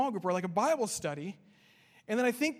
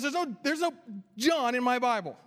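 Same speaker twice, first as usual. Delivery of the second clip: frustrated; 3 semitones higher, 4 dB louder than usual. Retold or imitated. Frustrated group member insisting his Bible lacks John, raised. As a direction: replay the fed-up man's protest. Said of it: "he's getting frustrated".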